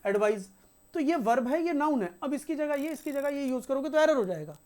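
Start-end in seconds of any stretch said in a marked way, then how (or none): 0.1-0.5 "एडवाइज" with a voiced z at the end; z sound. Shown as a demonstration. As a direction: end "एडवाइज" on a buzzing z, the verb form. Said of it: "इसका pronunciation होगा ज का".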